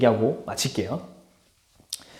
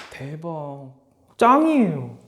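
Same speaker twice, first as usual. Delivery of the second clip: awed fan; 2 semitones lower, 4 dB quieter, much slower than usual. Acted. Functionalist praising the textbook.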